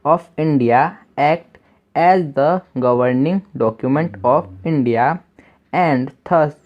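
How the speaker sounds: each English word read slowly for learners; slow, careful classroom reading; slow reading aloud. Shown as a demonstration. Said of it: "reading English text slowly".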